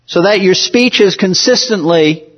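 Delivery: "consistently" given extra weight; stress on consistently. Real, not acted. Pastor warning his congregation, stressing "consistently". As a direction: lean into the word "consistently". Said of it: "and I emphasize the word consistently".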